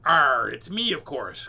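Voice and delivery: loud pirate cry; cried out. Acted. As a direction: shout the answer triumphantly.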